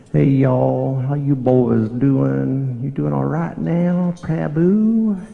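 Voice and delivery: put-on cheery Southern US greeting, slow on how you boys doing; Southern US accent. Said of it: "with the accent that the Southern people speak".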